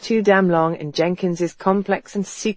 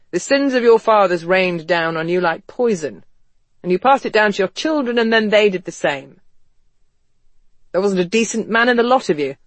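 higher, reproachful character voice; West, indignant young gentleman; 3 semitones higher, 3 dB louder than usual. Acted. West berating the portraits of his forefathers, indignant. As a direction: lay the blame on the ancestors, pitch lifted.

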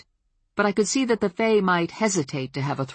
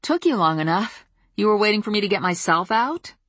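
teasing; 5 semitones higher, 3 dB louder than usual. Acted. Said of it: "because he'd know I was teasing".

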